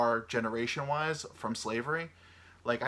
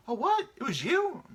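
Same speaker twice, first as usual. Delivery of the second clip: high, loud shocked disbelief; playing the shocked victim; 5 dB louder than usual. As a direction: gasp it out in disbelief. Acted shocked reply in quote.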